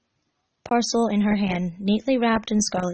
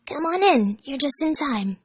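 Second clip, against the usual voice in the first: Tails voice; 6 semitones higher than usual. Acted. Tails welcomes friends at door.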